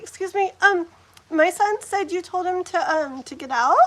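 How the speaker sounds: acting out a nice approach; nice, polite. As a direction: politely raise it with another parent. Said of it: "You know, just like that".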